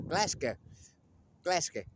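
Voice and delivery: attempted Scottish. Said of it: "I'll pick up the Scottish accent one day".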